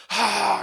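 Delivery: loud acted sigh of letdown; disappointed sigh. Preacher acts hearing bad test results, sighing in disappointment. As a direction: heave a big mock sigh of dismay. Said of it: "그 실망을 하게 되는 거죠".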